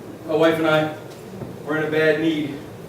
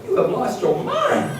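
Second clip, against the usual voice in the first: incredulous mock reply; slower than usual. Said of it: "I'm like".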